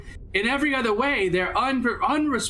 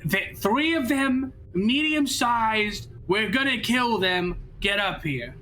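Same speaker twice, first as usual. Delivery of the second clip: whisper yelling; slower than usual. Acted. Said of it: "in a whisper shout".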